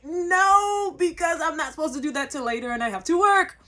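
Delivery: whiny protest. Retold or imitated. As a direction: complain like a child denied. Plane diverted to Paris.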